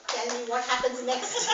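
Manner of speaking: half-laughing question; laughing king's demand. Acted. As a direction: ask while laughing. King demands, teller laughs.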